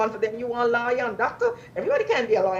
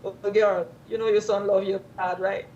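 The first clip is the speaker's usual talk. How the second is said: sweet-talking mother; 2 semitones lower, 4 dB louder than usual. Shown as a demonstration. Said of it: "You could say".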